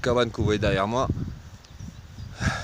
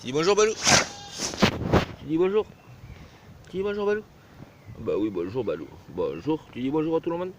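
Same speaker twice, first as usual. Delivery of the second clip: pet talk; 6 semitones higher than usual. Real, not acted. Owner coaxing the dog to greet viewers, high baby talk. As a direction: coo at the big dog.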